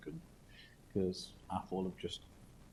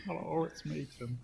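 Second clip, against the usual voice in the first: high squeaky cartoonish voice; squeaky voice guy; 8 semitones higher than usual. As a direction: pitch it up into a squeak. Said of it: "What's the really squeaky voice guy?".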